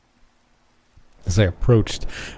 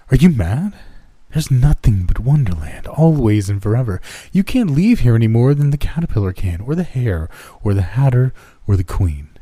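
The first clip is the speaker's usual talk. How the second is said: mocking creepy girl; 3 semitones higher than usual. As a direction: sneer it like a mad child. Creepy girl mocks, laughing.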